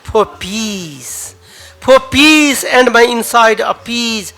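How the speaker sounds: dramatic poetry reading with rising passion; poem recital. Acted. Poet reciting his own verse to an open mic crowd, dramatic. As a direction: recite the poem, swelling on the big lines.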